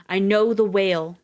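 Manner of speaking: slow and loud, hurled at the elephant; shouted defiance. A narrator's reading. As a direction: shout it out slowly, defiant against the pain. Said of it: "Dave shouts".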